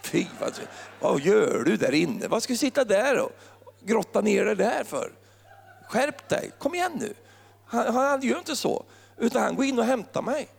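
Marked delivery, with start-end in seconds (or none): 0.0-7.1 mock scolding God. Preacher imitating a scolding God who never scolds. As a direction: play a nagging scold, half in jest. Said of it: "han står inte och skäller på mig".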